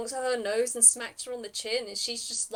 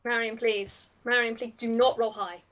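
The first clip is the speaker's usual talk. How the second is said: louder pleading with the player; 5 dB louder than usual. Real, not acted. Begging the player.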